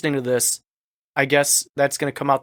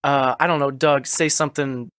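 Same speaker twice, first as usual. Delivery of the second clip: raspy, sore-throat voice. Real, not acted. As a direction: talk through a dry, raspy throat. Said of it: "I apologize in advance if people hear my raspy voice".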